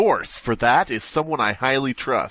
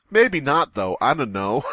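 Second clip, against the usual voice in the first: mock unsure narrator; 3 semitones higher than usual. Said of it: "in the last part of your story you say".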